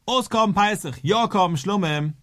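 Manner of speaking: half-shouted, emphatic announcement; mock shouted declaration. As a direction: call it out as if declaring it to all. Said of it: "in Schreien".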